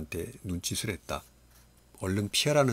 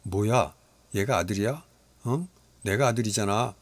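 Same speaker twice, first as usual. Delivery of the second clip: put-on whiny child complaining, louder; a sulky son protesting to his dad; jealous grumbling boy; 4 dB louder than usual. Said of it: "투덜거렸다". (투덜거리는 아이 목소리)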